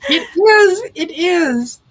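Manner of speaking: loud, high, delighted; excited. Real, not acted. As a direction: burst out happily. Agrees, thrilled.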